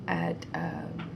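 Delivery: blocked nose voice; talking through a stuffy nose. Real, not acted. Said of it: "Sorry if I'm sounding stuffy".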